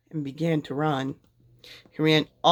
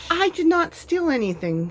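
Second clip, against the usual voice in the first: much higher, indignant; protesting denial; 12 semitones higher than usual. A narrator's reading. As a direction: insist you did nothing wrong. Minnie denies stealing.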